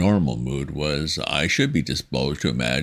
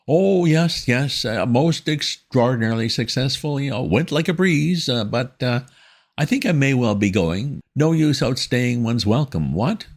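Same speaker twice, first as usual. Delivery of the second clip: put-on flustered young gentleman; 10 semitones higher, 4 dB louder than usual. A narrator's reading. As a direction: stammer like a rattled young gent. Wooster voiced in story.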